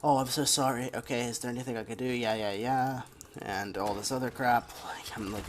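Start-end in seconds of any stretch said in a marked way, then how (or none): 0.0-3.0 sneering parody of a hollow apology; mocking fake sympathy. Mocking the coworker's insincere apology, fake sympathy. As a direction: rattle off the sorry fast, dismissive. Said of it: "that fake sympathy bullshit".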